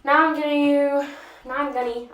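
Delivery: drawn-out, accidental Scottish lilt; Scottish accent. Real, not acted. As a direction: slip into a rough Scottish accent. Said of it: "I sounded kinda like a Scottish person".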